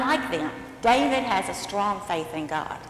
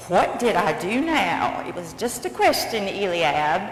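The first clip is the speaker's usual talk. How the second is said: protesting little brother; 2 semitones lower, 4 dB louder than usual. Acted. David answers his scolding brother, aggrieved protest. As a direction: push back at an unfair scolding.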